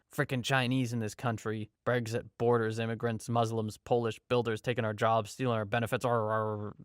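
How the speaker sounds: a lightly voiced grumbling bigot; hint of a resentful commuter grumbling; grumbling jerk. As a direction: mutter it like a sour little jerk on the train. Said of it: "some little jerk grumbling about the".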